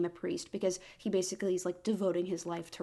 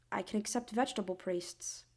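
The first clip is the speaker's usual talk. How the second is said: whispered, resigned; 5 dB quieter than usual. Real, not acted. Mock resignation.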